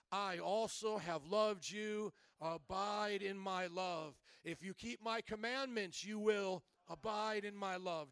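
measured, emphatic Bible reading; scripture reading. Acted. Pastor reads Jesus' words to the congregation, scripture reading. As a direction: read the verse out to the congregation.

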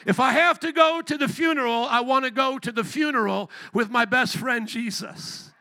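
loud preacher's cry, then easing off; preaching at full force. Real, not acted. Preacher crying out to the congregation about funerals, loud preaching. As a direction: lift the church with a shout.

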